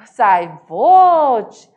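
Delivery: Cuiabá accent Vote; surprised exclamation. Shown as a demonstration. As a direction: gasp out Vote in shock. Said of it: "Essa admiração".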